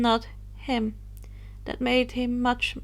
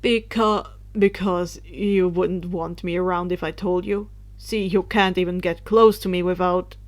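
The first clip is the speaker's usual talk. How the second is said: lower, frustrated huffing voice; huffy; 4 semitones lower than usual. Acted. Harry explaining why he hid, lower huffy complaint. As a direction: grumble it out, fed up. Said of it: "he huffed".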